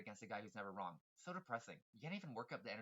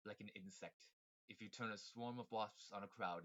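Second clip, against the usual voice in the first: evil villain voice; 2 semitones lower, 4 dB quieter than usual. Acted. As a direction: sneer it like a cold mastermind. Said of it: "evil villain voice".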